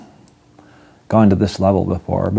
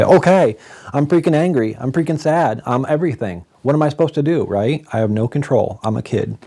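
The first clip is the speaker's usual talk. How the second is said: put-on higher, exasperated burst of a fed-up kid; fed-up outburst; 6 semitones higher than usual. Fed-up teen to the school counselors, higher exasperated outburst. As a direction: let it spill out, pitched up and exasperated.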